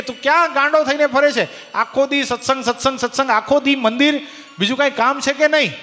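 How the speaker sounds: mock scolding. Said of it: "એ મને એમ કહે છે કે".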